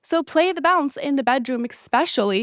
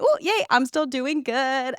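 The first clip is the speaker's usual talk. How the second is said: mock giddy cheer; 2 semitones higher, slower than usual. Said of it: "so I was like".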